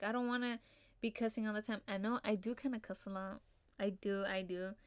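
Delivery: ordinary delivery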